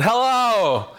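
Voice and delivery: furious stranger answering a third call; violent hello. Retold or imitated. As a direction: snap the word at the caller. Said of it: "was outright violent when he said".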